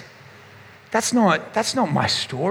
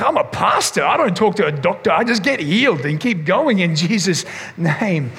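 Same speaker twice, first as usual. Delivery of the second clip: mock bravado. Mocking his own past bravado.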